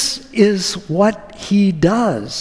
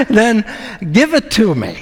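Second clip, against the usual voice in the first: eager commitment. Retold or imitated. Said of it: "He says".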